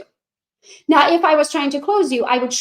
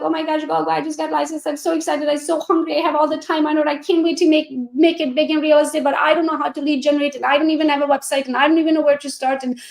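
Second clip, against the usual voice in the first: eager new agent; 3 semitones higher than usual. Retold or imitated. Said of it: "brand new agent who's like".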